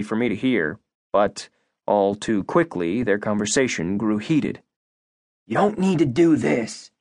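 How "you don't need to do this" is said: a mild bark, pitched higher. Acted. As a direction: snap it at her, only lightly raised. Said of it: "he barked".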